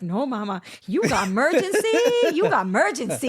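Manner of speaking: imitating a little kid refusing; lightly voiced toddler, pitch lifting on the warning; a hint of an earnest three-year-old; small child. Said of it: "And he's like".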